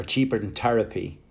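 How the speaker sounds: Therapy said as Terapy with a hard t, Irish style; Therapy with a Wexford t-sound. Shown as a demonstration. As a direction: drop the th, say Therapy like Tear-apy. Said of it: "But back home I go".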